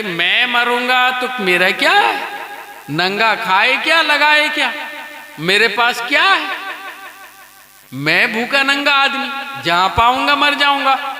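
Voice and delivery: a hint of a carefree fakir shrugging off death; carefree beggar, laughing. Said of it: "وہ بولتا ہے". (ہنستے ہوئے بے فکر فقیر کی ہلکی سی نقل)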